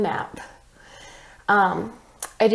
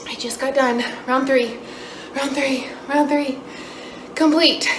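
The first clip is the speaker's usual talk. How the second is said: excited; 5 semitones higher, 3 dB louder than usual. Real, not acted. Finished third run, celebrating.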